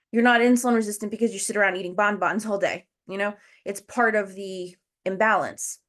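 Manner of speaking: talking while out of breath; short of breath, pushing through. Real, not acted. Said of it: "sorry, I'm so out of breath".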